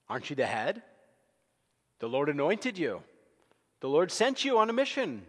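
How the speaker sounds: mock scolding, building to high and loud; Samuel laying into him. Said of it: "Samuel lays into him".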